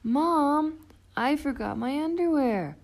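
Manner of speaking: high, loud panicked cry to mom; a frog kid in a sudden panic; urgent high wail; panicky Froggy. Acted.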